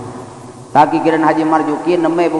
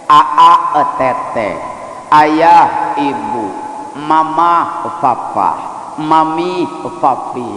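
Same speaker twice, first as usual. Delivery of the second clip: put-on cutesy baby talk; much slower than usual. Newlyweds' cutesy pet names.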